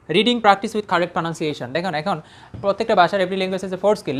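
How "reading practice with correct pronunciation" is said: deliberate reading. Shown as a demonstration. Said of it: "slow demo".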